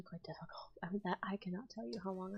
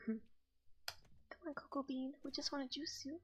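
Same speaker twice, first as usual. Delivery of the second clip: put-on posh British accent, higher and airy; coaxing in a pretentious British accent; 7 semitones higher, 7 dB quieter than usual. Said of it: "I just know how to sound posh and pretentious".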